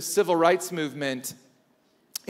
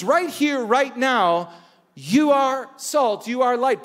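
emphatic Jesus; 5 semitones higher, slower than usual. Retold or imitated. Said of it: "He says".

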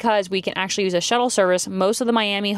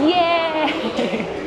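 excited cheer; 8 semitones higher than usual. Real, not acted. Stepping onto the cruise ship.

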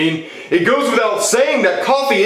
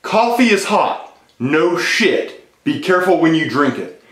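deadpan quoting; 3 semitones lower, slower than usual. Acted. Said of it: "and I quote".

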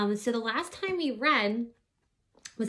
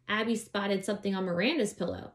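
put-on lively read-aloud voice for children; story narration; 3 dB louder than usual. A narrator's reading. Reading a children's book aloud.

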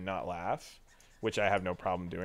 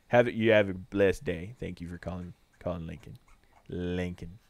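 lightly put-on low sign-off voice; a hint of a laid-back agent; drawling phone persona; 4 semitones lower than usual.

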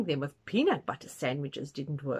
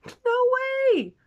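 very high, loud squeal of refusal; loud high-pitched no way; flat refusal; 10 dB louder than usual. A narrator's reading. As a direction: shriek it like an outraged manager. Manager refuses Mister Tusker.

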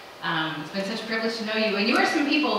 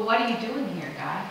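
calm asking. Retold or imitated.

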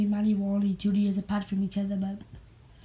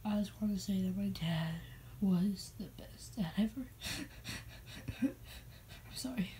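mock crying whisper; 7 dB quieter than usual. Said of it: "I'm crying too much".

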